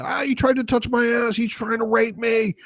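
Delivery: high, put-on shrill victim voice; mocking hysterical woman. Mocking a woman on police cameras, high falsetto whine. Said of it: "they're just like".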